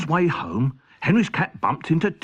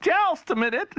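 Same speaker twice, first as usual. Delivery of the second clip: guard; 13 semitones higher than usual. Acted. Guard replies with a pun.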